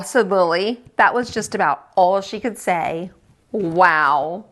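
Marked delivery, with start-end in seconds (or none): 3.5-4.5 lower, breathy-free wondering wow; hushed awe. Acted. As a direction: let the wow sink in. Echoing the wow, awed.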